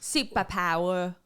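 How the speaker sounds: slow Australian drawl; mock Aussie with dropped R's; Australian accent. Shown as a demonstration. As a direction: draw it out in amateur Australian. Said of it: "That's Australian".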